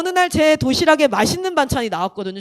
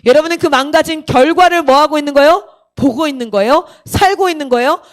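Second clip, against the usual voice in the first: lightly imitated preacher pressing questions; a hint of pulpit insistence; pastor's challenge; 4 dB louder than usual. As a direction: press each question on the congregation. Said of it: "이런 얘기를 하는 거예요".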